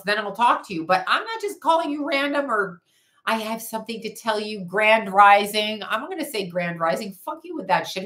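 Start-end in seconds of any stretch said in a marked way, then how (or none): 3.2-5.8 mocking imitation. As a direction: imitate a phony reader, stretching the greeting. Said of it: "Who talks that way?".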